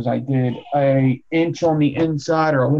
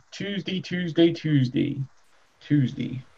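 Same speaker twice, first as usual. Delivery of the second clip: bullhorn with siren; 4 semitones higher than usual. Pretend. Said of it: "sounded like the megaphone people in Mexico".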